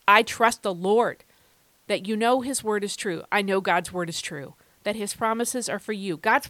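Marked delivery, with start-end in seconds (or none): 0.1-1.2 firm, louder declaration. Shown as a demonstration. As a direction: declare it aloud with conviction. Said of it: "Say out loud that you trust the Lord".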